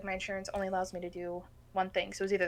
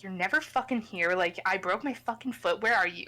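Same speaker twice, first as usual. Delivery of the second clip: mildly heated accusation, louder at the end; retold anger at mom; 4 dB louder than usual. Daughter scolding absent mom over broken foot, mildly angry. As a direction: build to an exasperated question. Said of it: "been so mad at my mom".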